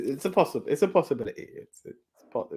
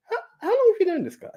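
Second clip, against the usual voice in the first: quoting Z; 3 dB louder, faster than usual. Retold or imitated. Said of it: "It was like".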